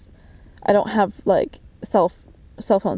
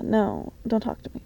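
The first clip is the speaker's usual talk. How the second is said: usual speaking voice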